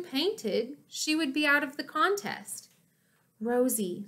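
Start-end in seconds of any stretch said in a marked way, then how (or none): 3.4-4.0 soft. Acted. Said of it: "said June softly".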